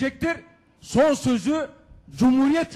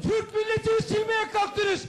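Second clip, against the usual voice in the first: shouting at court; 8 semitones higher than usual. Real, not acted. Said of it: "bağırma, bağırma".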